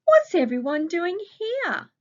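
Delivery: high, loud puzzled question; confused voice. Acted. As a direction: sound baffled as you ask it. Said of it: "Anne asked in a confused voice".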